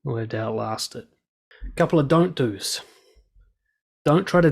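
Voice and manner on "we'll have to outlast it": calm. Shown as a demonstration. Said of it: "you're just calm".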